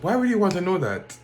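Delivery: high, loud, disbelieving question; mimicking a baffled postal clerk; incredulous clerk. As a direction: ask it like the idea makes no sense. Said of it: "She was in disbelief".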